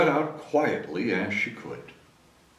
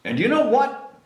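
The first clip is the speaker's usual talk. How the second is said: father's voice; 13 semitones higher, 3 dB louder than usual. A narrator's reading. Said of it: "said her father".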